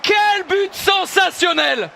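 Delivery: slow, high awestruck praise; excited sports commentary. Real, not acted. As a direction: savour every word of the goal.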